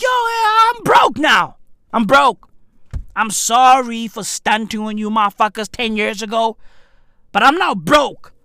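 mock fallen star. Ranter imitates broke celebrity begging fans, mock whine. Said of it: "They're like".

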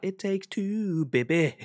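high, slow Scottish singsong; high slow Scottish lilt; Scottish accent. Shown as a demonstration. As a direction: draw it out like a Scottish host. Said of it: "it'll be like".

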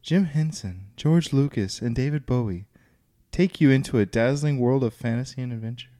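put-on soft, girly fairy tale reading; magical fairy tale voice. Shown as a demonstration. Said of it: "m-, girly and magical".

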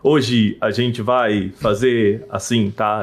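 very slow, deliberate presenter cadence; slow formal cadence. Retold or imitated. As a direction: stretch every word like a stiff announcer. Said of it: "É que eles falavam nessa cadência".

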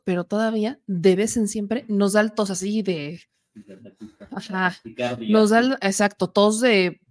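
ordinary talk

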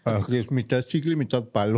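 talking around a lollipop in the mouth; words blurred by candy in the mouth. Real, not acted. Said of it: "No se te entiende nada cuando hables".

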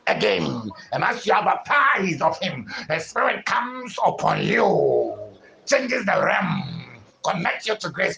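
forceful rising sermon cadence; preaching. Acted. Preacher promising the Spirit to the congregation, fervent preaching. Preacher declares new birth.

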